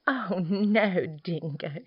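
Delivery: lightly fluttering emu voice; fluttery emu. Acted. Emu to Dingo, a little fluttery. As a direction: flutter lightly, dying away on the name. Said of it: "she fluttered".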